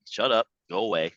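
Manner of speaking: brisk mock command to the inner voice; telling it to shut up. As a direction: shove the doubt away fast.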